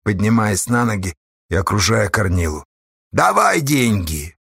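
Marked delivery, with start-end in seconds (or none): 3.1-4.4 demanding shout. A narrator's reading. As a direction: press for the money. Haulers demand the money. (требовательно)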